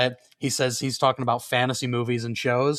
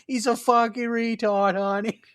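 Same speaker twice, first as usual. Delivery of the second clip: higher, slow mock Boston voice; blunt Boston accent, pitched up; 8 semitones higher than usual. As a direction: draw it out like a pitying Boston local. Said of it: "People in Boston are just fucking rude".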